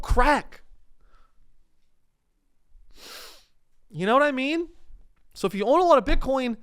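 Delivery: high-pitched comic lecture; mock-urgent warning. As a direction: plead the moral in a squeaky, exasperated pitch. Mock-urgent warning to bitcoin owners.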